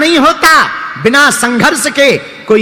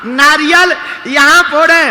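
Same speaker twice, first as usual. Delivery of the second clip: emphatic punchline; 4 semitones higher than usual. Acted. Punchline repeated loudly for effect. (हँसते हुए ऊँचे स्वर में घोषणा)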